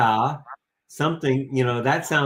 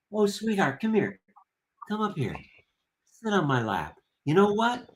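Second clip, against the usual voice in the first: tender father; 2 semitones higher than usual. Retold or imitated. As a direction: soothe the child gently on your lap. Caring father comforts child.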